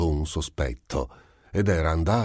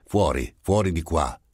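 shouting. Acted. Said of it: "urlava allo Schroeder".

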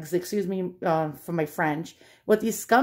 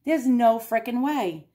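disbelief; 3 semitones higher than usual. Retold or imitated. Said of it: "I'm like".

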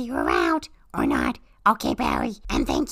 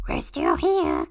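calling out; slower than usual. Acted.

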